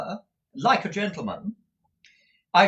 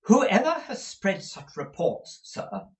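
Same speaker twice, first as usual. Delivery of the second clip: indignant, higher matron; with some warmth; 6 semitones higher than usual. A narrator's reading. Mother indignant about rumours of her grand relations, a touch heated. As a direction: bristle at the insult. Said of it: "with some warmth".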